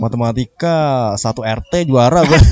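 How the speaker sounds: butting in to boast, drawn-out and loud; acted bragging. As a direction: stretch it out like a mock show-off. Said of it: "mau menceritakan dirinya sendiri". (pura-pura pamer, nyeletuk dengan nada panjang)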